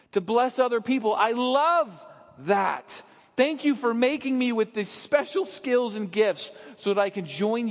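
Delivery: put-on beloved child thanking God with awe; grateful. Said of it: "the legitimate son or daughter who is beloved will say".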